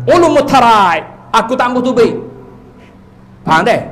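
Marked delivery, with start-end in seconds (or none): 0.1-2.1 stubborn spirit refusing. Retold or imitated. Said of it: "dia kata".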